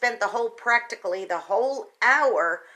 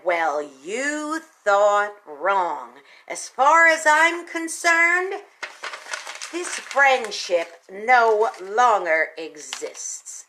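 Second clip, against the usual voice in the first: cold dismissal; much slower than usual. Retold or imitated. Donna coldly ends the friendship.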